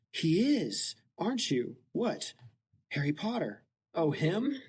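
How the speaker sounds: Gen Z Harry. Retold or imitated. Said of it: "New Gen Z translation of Harry Potter".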